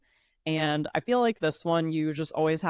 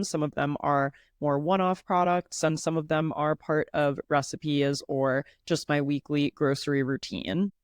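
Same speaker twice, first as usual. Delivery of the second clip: stuffy nose, head cold voice; congested voice. Real, not acted. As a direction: talk through a blocked nose. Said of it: "I probably sound a little bit congested today".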